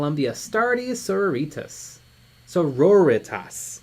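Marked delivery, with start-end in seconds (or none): 1.0-2.0 "Sororitas" with a long "ee", rhyming with margaritas; habitual mispronunciation. Real, not acted. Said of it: "I always say it wrong". 2.5-3.8 "Sororitas" slowly, as so-ROR-ih-tas; corrected pronunciation. Shown as a demonstration. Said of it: "I always say it wrong".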